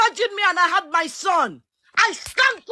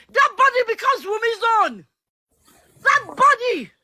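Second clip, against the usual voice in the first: raised, impassioned outburst; shouting in real frustration; emotional shouting; 3 semitones higher than usual. Real, not acted. Speaker on a live chat shouting in anger about the bullying. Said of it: "I'm sorry I'm shouting".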